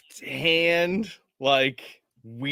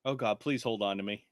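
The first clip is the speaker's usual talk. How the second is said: frightened plea; 5 semitones lower, 8 dB quieter, faster than usual. Acted. Injured character begs to be held.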